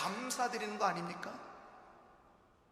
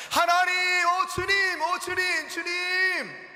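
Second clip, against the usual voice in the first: higher, louder shouting praise to God; joyful shout; 9 semitones higher, 6 dB louder, slower than usual. Acted. Healed leper shouting thanks to God, loud and high. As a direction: cry out thanks at the top of your voice. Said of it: "그렇게 외치면서 돌아왔다는".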